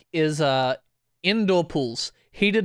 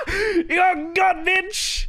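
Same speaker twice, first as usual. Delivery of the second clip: put-on high, sing-song kid taunt; mocking taunt; much slower than usual. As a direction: jeer at the victim like a gloating twelve-year-old. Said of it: "And we're like".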